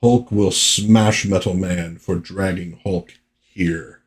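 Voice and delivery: lightly voiced slow brute; a slow, deliberate monster threat; slow, heavy comic-book menace; Hulk. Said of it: "that's how the Hulk does stuff".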